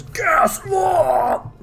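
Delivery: high cry of warning; alarmed judge. Acted. Judge as the gas comes in, alarmed cry. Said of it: "one of the judges says".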